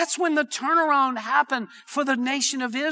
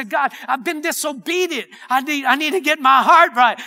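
earnest confession, building louder; crying out; 2 semitones higher, 4 dB louder than usual. Acted. Preacher voicing a disobedient believer to God, crying out. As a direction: plead with God to be put right. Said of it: "need to cry out to God and say".

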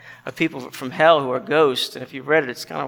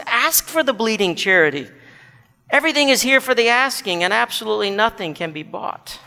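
urging bright man; 5 semitones higher than usual. Acted. Bright man urges asking for charity.

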